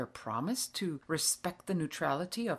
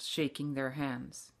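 ordinary delivery, nothing marked

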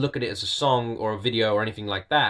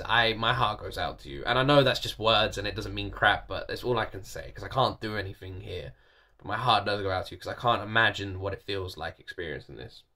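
sincere; 3 semitones lower, 5 dB quieter than usual. Real, not acted. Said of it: "I'm feeling really emotional now".

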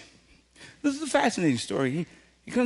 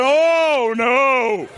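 laughing refusal; much slower than usual. Retold or imitated.

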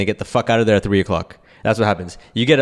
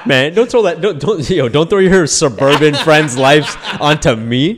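louder, laughing denial; loud protest; 4 semitones higher, 4 dB louder than usual. Real, not acted. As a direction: push it away, loud and playful.

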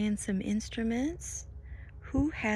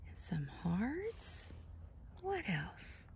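hushed bedtime whisper; drowsy hushed questions; soft whisper; 6 dB quieter than usual. Real, not acted. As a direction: whisper softly as the story winds down. Quiet winding-down whisper.

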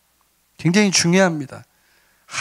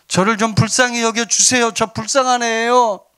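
higher-pitched modelled begging; pleading prayer; 4 semitones higher than usual. Shown as a demonstration. Pastor showing how to pray for mercy, high acted plea. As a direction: plead lightly to God for pity. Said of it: "받게 해달라고 기도하세요".

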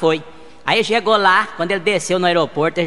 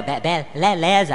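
slow stammer on each syllable; stuttering Gaguinho; slower than usual. Acted. Friend on the phone stammers a greeting. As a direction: trip over the first syllable, then push through. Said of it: "O Gaguinho".

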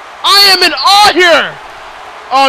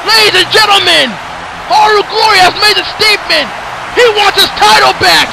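fired-up hype; 3 semitones higher than usual. Real, not acted. Commentator tells ladies and gentlemen Haru made a statement, hyped. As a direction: sell the moment to the arena.

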